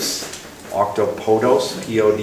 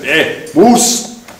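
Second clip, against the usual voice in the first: a hint of a native speaker naming the animal, moose rising; lightly voiced native guide; 3 semitones higher, 4 dB louder than usual. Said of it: "and they're like".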